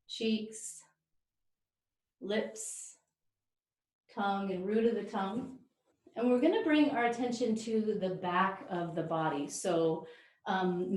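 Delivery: calm yoga breathing guidance with long pauses; guided relaxation. Real, not acted. Yoga teacher settling the class into breath, calm guided relaxation. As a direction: ease them into breathing, leaving space between phrases.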